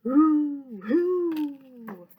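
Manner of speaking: loud hooting "Hoo, hoo."; owl hoot. Acted. The owl answers the children, hooting. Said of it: "And the owl says".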